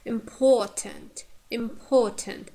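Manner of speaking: "important" said slowly with a long, strong "por"; "important" drawn out on its middle syllable for learners; stress on middle syllable. Shown as a demonstration. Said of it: "poor is".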